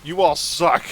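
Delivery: half-shouted mock fury at the listing; ranting like a furious critic, hammed up; exasperated retold outburst; mock outraged rant. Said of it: "he's like".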